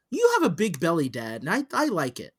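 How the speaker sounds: imitating a sweetly blunt son; nicest way. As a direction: say it kindly, like an innocent compliment. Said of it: "say it in the nicest fucking way".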